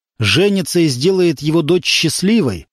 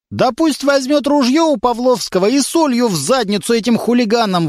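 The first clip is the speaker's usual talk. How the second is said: put-on higher, old man's gruff advice; grandfather's voice; 9 semitones higher than usual. A narrator's reading. Grandfather advises the grandson to use the shotgun, gruff. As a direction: rattle it off like an old man. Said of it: "выдал речитатив старший Верхотуров".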